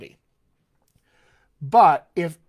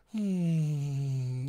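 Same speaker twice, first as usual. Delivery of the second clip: hum demo; 3 semitones lower, 5 dB quieter than usual. Shown as a demonstration. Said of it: "When we did this".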